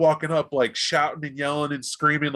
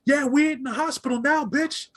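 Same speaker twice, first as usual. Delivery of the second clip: higher, mocking taunt; raised street taunt; taunting gang voice; 9 semitones higher than usual. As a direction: sneer it at him. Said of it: "sitting there going".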